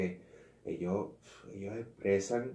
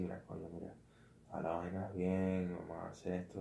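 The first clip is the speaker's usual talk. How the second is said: softer, gentle fatherly advice; calm fatherly voice; 2 semitones lower, 7 dB quieter than usual. Retold or imitated. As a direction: speak softly like a patient father guiding. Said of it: "con buen tono de voz, tranquilo". (voz tranquila de padre)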